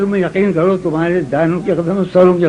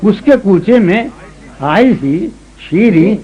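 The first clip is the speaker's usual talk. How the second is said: ghazal recitation. Acted. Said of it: "سنو".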